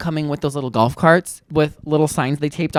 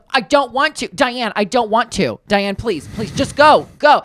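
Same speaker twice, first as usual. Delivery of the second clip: higher-pitched mock protest; exasperated pleading; 4 semitones higher, slower than usual. Man begging Diane to drive on, mildly exasperated. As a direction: plead to be left alone.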